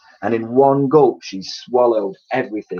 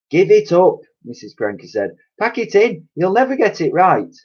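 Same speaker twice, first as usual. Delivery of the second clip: higher, louder exasperated; fed-up mother; 9 semitones higher, 5 dB louder than usual. A narrator's reading. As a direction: throw in the towel. Missus Cranky exasperated.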